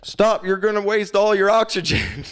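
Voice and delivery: high-pitched, urgent imitation of an instructor; Russell. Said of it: "He said".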